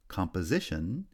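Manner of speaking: main stress on "si" in "composition"; "composition", lighter first stress, main stress on third syllable; third-syllable primary stress. Shown as a demonstration. Teacher showing stress shift, third syllable strongest in "composition". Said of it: "receives secondary stress on the first syllable".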